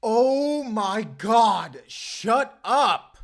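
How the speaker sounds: high mortified protest; embarrassed outburst. Acted. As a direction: drag it out, begging her to stop. Teased about asking someone out.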